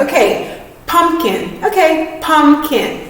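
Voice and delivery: light mock self-talk; retold inner voice. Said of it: "I said in my head, I'm like".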